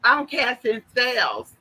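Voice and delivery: slow, high, drawn-out mockery; mock spell-caster. Imitating people who act like they cast spells, mocking spell-caster. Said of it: "acting like they're casting spells".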